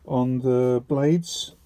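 speaking through a face mask; muffled, mask over mouth. Real, not acted. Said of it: "If I sound a bit muffled, it's 'cause I've actually got, um, a mask on today".

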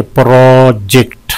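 "प्रोजेक्ट" split in two, first syllable held; syllable breakdown. Shown as a demonstration. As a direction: stretch the first part of "प्रोजेक्ट". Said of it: "दो हैं इसमें". ("प्रोजेक्ट" दो हिस्सों में खींचकर)

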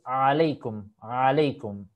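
aleikum with ain from the throat; correct Arabic pronunciation. Shown as a demonstration. Teacher giving the correct greeting. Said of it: "la pronunciación correcta es".

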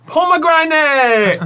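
loud, high, drawn-out cry of relief; relieved shout. Real, not acted. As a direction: yell it out in triumph. Relieved shout on lucky bean.

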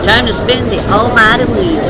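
sweeping, ceremonious announcement with a swooping tune; grand announcement. Real, not acted. Vlogger announcing the wheel game to viewers, grandly. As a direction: announce it like a great event.

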